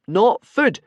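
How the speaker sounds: high loud yell; frantic high shout; panicked shout. Acted. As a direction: shout it to save his life. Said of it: "Hiccup shouted out".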